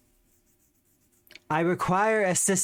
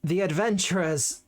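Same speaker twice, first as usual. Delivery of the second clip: formal servant voice. Acted. Servant formally introduces the lich.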